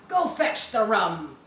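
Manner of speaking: eerie voice crying out a name from the trees; ghostly call. Acted. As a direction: sing it out like a ghost calling across the woods. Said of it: "it sang out".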